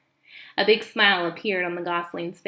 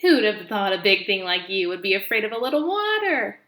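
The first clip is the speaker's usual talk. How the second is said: lightly louder teasing goose voice; teasing old goose; 4 dB louder than usual. Acted. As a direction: tease like an amused old goose. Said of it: "Loudwing laughed".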